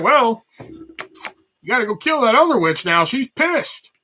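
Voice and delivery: slow, put-on Good Witch voice; hammed-up sugary Glinda, drawn out; mock Glinda. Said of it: "Glinda the Good Witch is just like".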